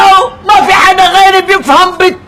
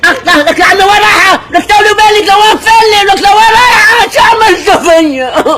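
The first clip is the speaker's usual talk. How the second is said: exasperated calling out; 6 semitones higher than usual. Acted. Calls after woman fleeing.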